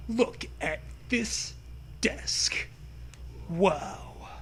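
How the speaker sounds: slow, unvoiced whisper; awed whisper. Admiring the new desk in an awed whisper. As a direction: breathe it in awe.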